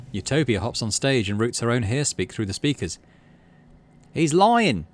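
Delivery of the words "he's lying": loud, higher, bitter accusation; bitter yell. Acted. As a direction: spit out the accusation. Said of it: "she yells bitterly".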